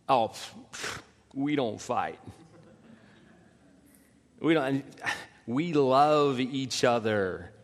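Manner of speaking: mock breezy denial; dismissive couple. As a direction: wave it away lightly. Couple claiming they never fight.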